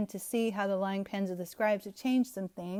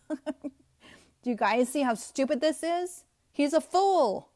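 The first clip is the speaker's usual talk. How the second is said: laugh, then ask in disbelief; slower, incredulous question after a chuckle; amused disbelief; 3 semitones higher, slower than usual. Real, not acted. Preacher to viewers about a teaching they find stupid, amused disbelief.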